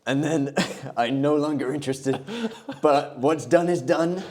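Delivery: lightly voiced presidential parody; Donald Trump. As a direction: play the pleased politician giving an answer. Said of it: "let's leave President Trump".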